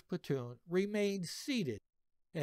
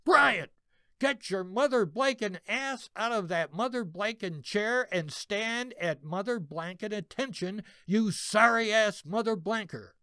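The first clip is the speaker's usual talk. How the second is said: furious sergeant yell; 5 semitones higher than usual. Retold or imitated. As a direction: chew out the lazy private like a drill sergeant. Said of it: "McGovern yelled".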